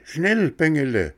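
high goat bleat, schnell falling away; a goat's urgent bleat sliding down. Acted. Goat on the rock urging Bengele, falling bleat. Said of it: "meckerte die Ziege".

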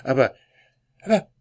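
high, loud alarmed cry; wife shouting. Acted. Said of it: "schrie da auf einmal seine Frau".

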